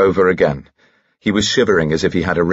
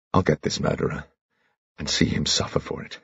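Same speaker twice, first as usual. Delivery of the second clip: whispered vow; 7 dB quieter than usual. Acted. Vow, unvoiced quiet.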